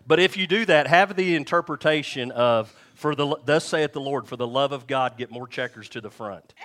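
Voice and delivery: loud, hammed-up prophetic proclamation; mock a solemn thus-saith-the-Lord pronouncement; mock prophecy. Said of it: "that needs to be the interpretation".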